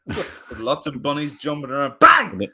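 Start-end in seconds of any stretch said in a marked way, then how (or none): 2.0-2.5 loud high "Bang!"; gunshot shout. Pretend. Mock shooting sound.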